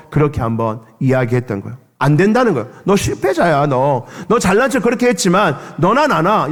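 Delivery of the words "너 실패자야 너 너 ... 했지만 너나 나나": higher, contemptuous jab; robber's scorn. Retold or imitated. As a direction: belittle him. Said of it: "옆에 있던 두 강도가".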